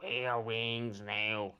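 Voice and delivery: very slow, drawn-out monster order; ponderous creature voice; bugbear command. Acted. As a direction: spell it out slowly as a blunt bugbear. Bugbear orders them to wear wings.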